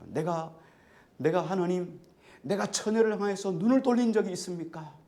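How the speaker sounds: preacher voicing an insistent self-defence; impassioned protest. Preacher acts Job's protest to God.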